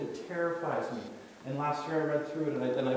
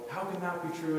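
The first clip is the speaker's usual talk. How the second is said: higher-pitched mock yell; retold yell; 5 semitones higher than usual. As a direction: imitate a heckler calling out. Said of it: "he would yell at me".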